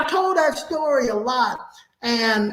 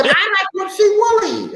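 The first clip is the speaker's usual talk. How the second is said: much higher, hammed-up old lady saying Whoopsie Wooly; over-exaggerated mother's voice; 9 semitones higher than usual. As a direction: lift it way up into a cooing old woman. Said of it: "I do his mother's in voice".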